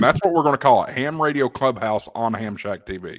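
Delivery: broadcast welcome, bright and big; host the show like an announcer; radio announcer voice. Acted. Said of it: "I've been doing it all night".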